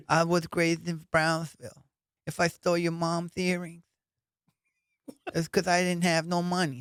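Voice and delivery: a hint of a sweet kid talking tough; cute little kid Mike Tyson. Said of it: "it's like a cute little kid".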